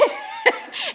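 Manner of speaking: a sudden high laugh, breaking into the story; high burst of laughter. Real, not acted. Preacher laughs, recalling her overseer's look, high burst of laughter. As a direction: let a high laugh escape mid-story.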